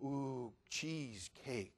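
soft slow breathy ooh; hushed, longing over the cheesecake; awed hush. Acted. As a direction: savour it under your breath. Awed whisper over desserts.

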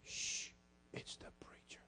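hushed warning whisper; retold whisper. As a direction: whisper it like kids caught by the preacher. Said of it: "you hear 'em go".

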